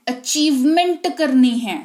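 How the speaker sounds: "अचीवमेंट" slow, with the long ई held; slow emphatic "achievement". Shown as a demonstration. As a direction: press the ई in "अचीवमेंट". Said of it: "देखो कितना जोर पड़ता है तालू पर". ("अचीवमेंट" में ई पर जोर)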